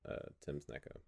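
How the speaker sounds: backwards speech. Shown as a demonstration. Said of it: "Give me a word, and I'll say it backwards".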